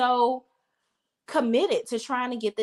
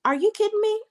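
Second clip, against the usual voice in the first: shocked disbelief; 12 semitones higher, faster than usual. Retold or imitated. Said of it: "Fatima was like".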